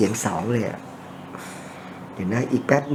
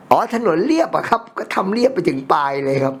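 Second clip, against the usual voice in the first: higher-pitched, playful "oh, I see"; mildly hammed-up dawning surprise; mock surprised realization; 4 semitones higher than usual. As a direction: replay the moment it finally dawned on you. Retells another belated realization.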